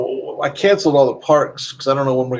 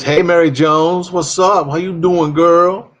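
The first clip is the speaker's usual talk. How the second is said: put-on higher, drawn-out hey-girl greeting; lively greeting; 5 semitones higher, 4 dB louder, slower than usual. Streamer voicing a viewer's message to Mary Jones, lively greeting. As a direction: call it out like greeting a girlfriend.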